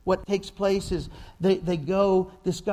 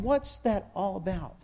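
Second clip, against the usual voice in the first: puzzled. Retold or imitated. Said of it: "And you're going".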